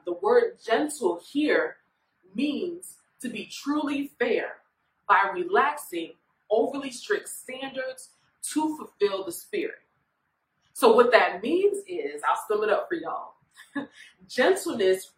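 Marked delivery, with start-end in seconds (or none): 0.0-9.8 slower repeat. Shown as a demonstration. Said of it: "so I'll say it one more time".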